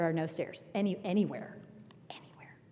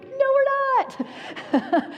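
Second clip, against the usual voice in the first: emphatic refusal; 6 dB louder, much slower than usual. Retold or imitated. Refusing kids after ordeal.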